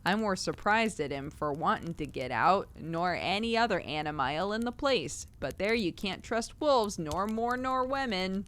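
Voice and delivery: lightly voiced old Cockney keeper, slow at the end; a gruff old keeper grumbling about wolves; zookeeper voice. Reader voicing old zookeeper.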